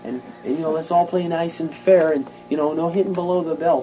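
mock timid pep talk. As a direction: make the pep talk gentle and spineless.

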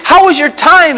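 high, slow adoring wife voice; a wife's dreamy welcome home, pitched high; doting wife. Pretend. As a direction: greet him like she's been waiting all day. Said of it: "Just kinda walk in the door and".

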